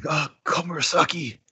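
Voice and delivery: mildly voiced sobbing old man; crying old man. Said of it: "He's still crying".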